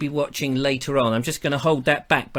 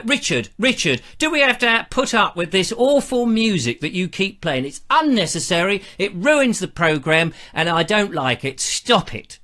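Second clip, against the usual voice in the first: lightly voiced scolding listener; mock telling-off in a listener's voice; complaining listener impersonation; 3 semitones higher than usual. Listener complaining to host about the music, mock scolding. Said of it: "everybody I do an impersonation all speaks like that".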